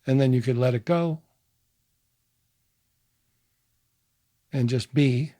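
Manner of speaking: measured meditation guide, pausing between phrases; guided meditation. Acted. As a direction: gently lead listeners through it, leaving space.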